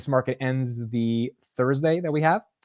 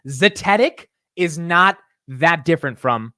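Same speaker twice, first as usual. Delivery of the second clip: zetetic leaned on, slow and louder; insistent slow pronunciation; 5 semitones higher, 6 dB louder, slower than usual. Shown as a demonstration. Streamer defending his pronunciation, slow and emphatic. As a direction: hammer his own zetetic. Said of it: "how to say these words".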